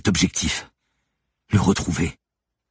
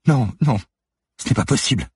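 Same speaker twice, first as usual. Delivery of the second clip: higher, louder protest; panicked denial; 7 semitones higher, 3 dB louder than usual. Acted. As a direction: refuse to believe it, out loud. Manon rejects Lucie's accusation.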